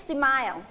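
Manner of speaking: "smile" modelled with a falling end; pronunciation model. Shown as a demonstration. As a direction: say "smile" clearly for the class to repeat. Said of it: "ออกเสียงสิ".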